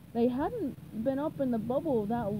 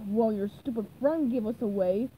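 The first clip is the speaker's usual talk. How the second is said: grumbling. Acted. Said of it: "Plankton grumbled".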